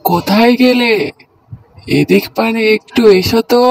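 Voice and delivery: loud call to his wife from another room; calling out loudly. Acted. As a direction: bellow for the wife to come over. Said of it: "এত ষাঁড়ের মতো চেঁচাচ্ছ কেন?". (স্ত্রীকে জোরে হাঁক দিয়ে ডাকা)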